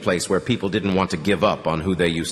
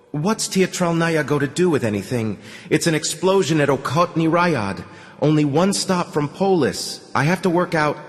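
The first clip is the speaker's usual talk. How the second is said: higher, impatient commander voice; irritated colonel; 6 semitones higher than usual. Acted. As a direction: brush him off, annoyed.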